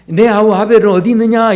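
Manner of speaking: a touch of feigned puzzlement on "내 아우 아벨은 어디 있느냐"; mild pretend-innocent question from God to Cain; as if not knowing. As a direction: ask it lightly, as if God didn't know. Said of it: "마치 뭔가 모르듯이".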